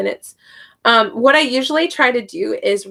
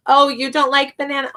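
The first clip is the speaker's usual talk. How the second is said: mock surprise; 4 semitones higher than usual. Shown as a demonstration. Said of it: "I add fruit to it and I say".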